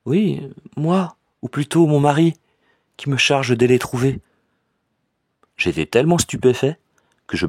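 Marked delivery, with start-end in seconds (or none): 0.1-4.2 put-on higher, hesitant young woman's voice; troubled cousin. A narrator's reading. Cousin asks her cousin for money, higher and troubled. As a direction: voice the embarrassed cousin asking for money.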